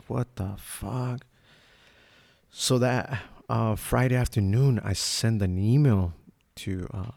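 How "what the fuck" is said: stunned mutter. Retold or imitated. Shock at the scale.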